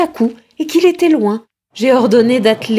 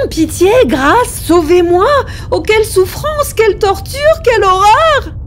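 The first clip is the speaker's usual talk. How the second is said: much higher, pleading in terror; anguished prayer; 9 semitones higher than usual. Acted. Haunted man begging God to save him, in anguished terror. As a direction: cry out to God as if drowning.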